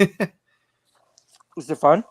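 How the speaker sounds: breathy hushed whisper, slow. Real, not acted. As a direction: whisper it slowly, secretively. Sudden hushed question mid chat.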